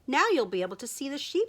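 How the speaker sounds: excited. Acted. Sheep excited, rushing her words.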